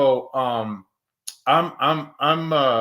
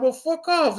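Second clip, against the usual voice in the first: retold brush-off; 12 semitones higher than usual. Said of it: "And I'm like".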